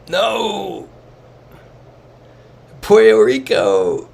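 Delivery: high, loud shriek of joyful disbelief, slow on Puerto Rico; delighted shout. Real, not acted. Streamer spotting a Puerto Rico sign, gleeful high shout. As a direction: squeal it out, thrilled and amazed. Spots a funny sign mid-game.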